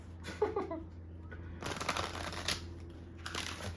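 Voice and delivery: long, quiet, breathy laughter; soft laugh. Real, not acted. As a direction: laugh softly to yourself. Laughs after joking remark.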